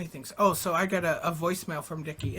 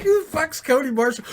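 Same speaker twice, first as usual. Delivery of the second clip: loud, high mock outburst; hammed-up incredulous shout; Dickie impression; 8 semitones higher, 12 dB louder than usual. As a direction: imitate an indignant friend, much louder and higher. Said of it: "I'll do the impression".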